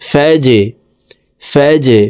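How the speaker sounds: "ফাজে" with a bounced final j; downward push on j. Shown as a demonstration. Teacher repeating the qalqalah example, pushed j. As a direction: release the j of "ফাজে" with a little echo. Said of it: "ধাক্কা দিয়ে উচ্চারণ করব".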